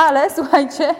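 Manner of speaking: breaking into a laugh mid-sentence. Real, not acted. Laughing while addressing the class. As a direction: laugh it out, then carry on.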